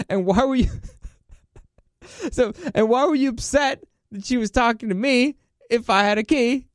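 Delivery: retold incredulous question, laughing; laughing retort. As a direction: argue back while cracking up.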